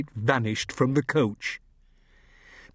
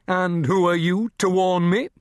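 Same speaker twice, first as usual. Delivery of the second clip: high, raised indignant retort; 6 semitones higher, 4 dB louder than usual. A narrator's reading. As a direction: challenge him, offended. Father retorts.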